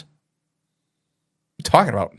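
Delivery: put-on slow, puzzled kid's reply; puzzled student. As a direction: drag it out, honestly confused.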